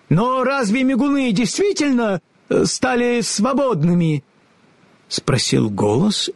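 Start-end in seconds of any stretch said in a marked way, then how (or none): 0.1-4.2 high, slightly shaky voice; trembling wizard. A narrator's reading. The wizard doubts the Winkies are free, a touch shaky. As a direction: let the grand voice waver. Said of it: "Элли показалось, что он задрожал".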